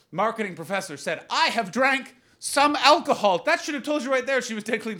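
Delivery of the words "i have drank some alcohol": high, slow, prim voice of a mother; mock a careful sober mother, slow and high; slow, overly careful mom answer. Mom's careful answer to police.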